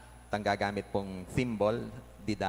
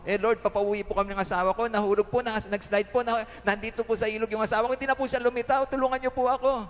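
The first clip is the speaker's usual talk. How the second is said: high, loud, desperate plea; pleading wife; 11 semitones higher, 4 dB louder than usual. Acted. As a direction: beg the Lord to bring the husband back. Wife pleads, crying to God. (nagmamakaawang asawa, mataas at malakas ang boses)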